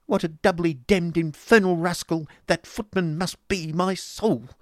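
high, loud, gushing fop; affected husband. Acted. Affected husband rails at footman.

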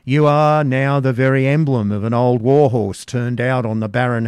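loud, scornful jeering; mocking taunt. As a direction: jeer at the old woman. Man taunting old hag.

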